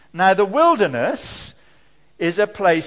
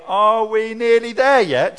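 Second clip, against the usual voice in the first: put-on whiny child; 3 semitones higher, 5 dB louder than usual. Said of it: "One of you starts to say".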